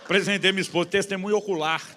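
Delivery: loud, high-pitched proclamation; triumphant declaration. Real, not acted. Preacher presenting his wife as eyewitness, triumphant. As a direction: belt it out as proof.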